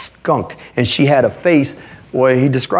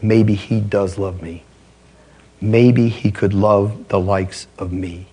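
tearful; 4 semitones lower, slower than usual. Retold or imitated. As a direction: let it come out slow and hushed through tears. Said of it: "broke down weeping".

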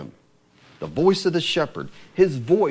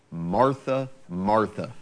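pleading; 7 semitones lower, much slower than usual. Retold or imitated. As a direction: gently call her name twice. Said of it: "that pleading".

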